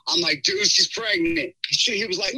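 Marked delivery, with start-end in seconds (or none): 0.4-1.6 high, drawn-out mock panic; retold flipping out. Telling best friend about the pregnancy, freaking out. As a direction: act out breaking shocking news to a buddy. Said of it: "I'm, like, flipping out".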